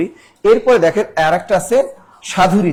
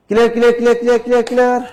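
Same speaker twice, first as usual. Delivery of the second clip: excited; 5 semitones higher, 3 dB louder, much faster than usual. Real, not acted. Teacher reads students' chat answers.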